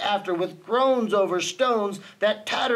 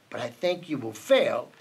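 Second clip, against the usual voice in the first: low, understated sneer; 7 semitones lower than usual. A narrator's reading. Bird predicts Horton's failure, lightly sneering. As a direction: drop down into a smug taunt. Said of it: "sneered the bird".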